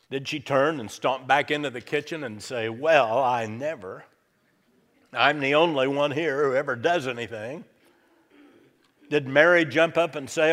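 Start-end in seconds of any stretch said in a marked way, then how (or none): 2.7-7.6 mock indignant huff. Martha stomps off indignant.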